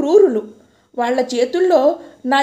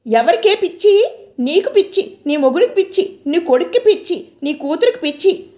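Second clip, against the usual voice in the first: furious shout; 4 semitones higher than usual. Retold or imitated. Locked-up woman screams back at her in-laws, furious. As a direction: yell it back at them in rage. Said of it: "అరిచాను".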